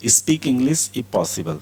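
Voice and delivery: slow and deliberate; slow model reading. Shown as a demonstration. Teacher reads the example slowly to students. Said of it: "teacher models example sentence".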